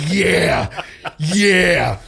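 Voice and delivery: high, laughing gloating yeah; grinning laugh. Retold or imitated. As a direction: chuckle it with a huge grin. Grinning at trainees while laughing.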